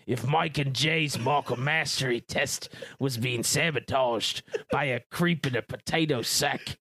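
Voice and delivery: put-on half-hearted Australian accent broken by laughs. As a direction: read the question in a jokey Australian accent. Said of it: "I'm gonna do my Australian accent".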